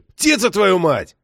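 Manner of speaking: loud, slow, high drawn-out holler; impatient roar through the wall; yelling. A narrator's reading. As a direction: bellow the curse to summon him. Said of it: "заорал Токарев-старший".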